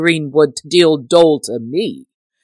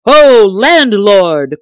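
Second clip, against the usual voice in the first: bellowed call, drawn out; angry shout; 5 semitones higher, 10 dB louder, much slower than usual. A narrator's reading. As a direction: roar for the landlord in a rage. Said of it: "sprang to his feet in a rage".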